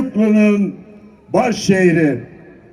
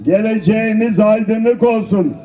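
rally shout. Real, not acted. Rally speaker calling out blessings.

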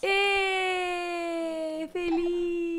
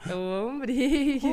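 put-on baby voice; 4 dB louder, much slower than usual. Slow voicing, then laughing.

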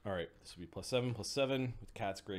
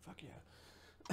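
excited; 6 semitones higher, 7 dB quieter than usual. Real, not acted. Unvoiced excited exclamation.

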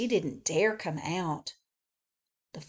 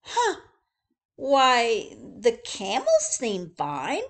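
high, startled huh then louder; surprised zookeeper; 3 semitones higher, 5 dB louder, slower than usual. Acted. Zookeeper surprised at the camel house, high then louder. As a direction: jump at the healthy camels. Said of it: "said the zookeeper".

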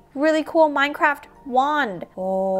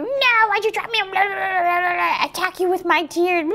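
high-pitched mock bawling; ugly-crying baby doll; 8 semitones higher than usual. Dropped doll attacks with tears, high fake bawling. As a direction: blubber indignantly like a tearful baby. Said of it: "that's a really ugly cry".

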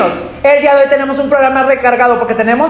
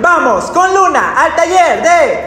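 announcer voice; 5 semitones higher, much slower than usual. Acted. Announcing next segment.

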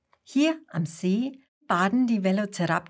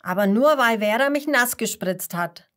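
louder, defending himself; boy loudly protesting his innocence; indignant call; 2 semitones higher, 5 dB louder than usual. Acted. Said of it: "schaut ganz ernst und ruft".

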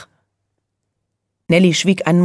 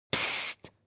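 sharp whispered psst; commanding hush; 12 dB quieter than usual. A narrator's reading. Nelly hushing her sleepy cousins with a whisper. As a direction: hush them all sternly in a whisper. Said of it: "herrschte Nelly sie an".

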